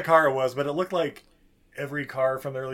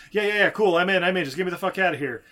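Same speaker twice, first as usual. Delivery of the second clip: eager agreement; 3 semitones higher, 4 dB louder, faster than usual. Retold or imitated. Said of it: "Rabbit's like".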